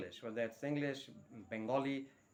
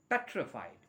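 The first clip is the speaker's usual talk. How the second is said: slow model word; much slower than usual. Shown as a demonstration. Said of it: "a very posh word".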